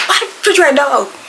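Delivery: mock outburst over a little thing; rushed, exasperated retold complaint; mad. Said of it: "I'm mad".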